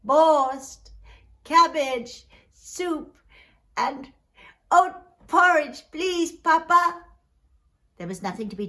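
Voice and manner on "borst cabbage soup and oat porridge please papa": put-on higher, louder pleading child voice; plaintive child calling out for food; crying hungry children. A narrator's reading. Hungry children begging Papa for food, plaintive. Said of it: "my children were crying for food again".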